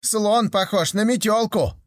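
гораздо выше, сердито и упрямо; сердито настаивай. Acted. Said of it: "сердито спорили". (слепые в пыли сердито спорят)

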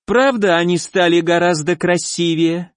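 cloying, sickly sweet and high; syrupy voice of a monster; sugary creature voice. Acted. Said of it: "какой-то слащавый голос".

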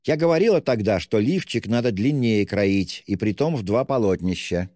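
a hint of a distraught mother fussing; agitated mother. A narrator's reading. Distraught mother fussing over her children, agitated. Katerina Ivanovna ranting to children.

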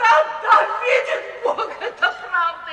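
high, loud, slow laughing cry; bitter laughing shout. Acted. Mother admitting it to her daughter, bitter laughing cry. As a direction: cry out half-laughing, half-despairing.

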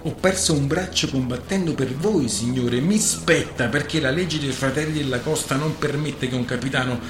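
a sailor arguing his rights before the crew; defiant oration. Acted. Rogerio to the captain, loud defiant speech.

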